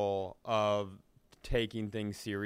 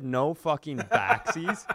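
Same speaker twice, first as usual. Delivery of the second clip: laughing mock threat; 3 semitones higher, 5 dB louder, slower than usual. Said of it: "He said".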